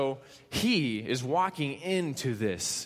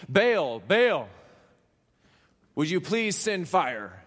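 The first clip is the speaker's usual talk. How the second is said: loud, slow plea to a god; earnest calling out; 3 semitones higher, 5 dB louder, slower than usual. Acted. Prophets calling on their god, earnest loud plea. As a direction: call out solemnly, stretching the name. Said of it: "in seriousness calling".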